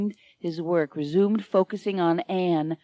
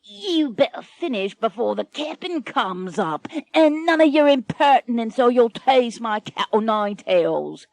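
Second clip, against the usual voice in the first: snarling bosun; 4 semitones higher than usual. Acted. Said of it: "A bosun snarls at Michael".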